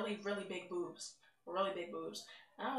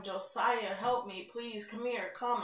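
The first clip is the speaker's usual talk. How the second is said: retold crying plea; 3 dB louder, slower than usual. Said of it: "just screaming and I'm crying".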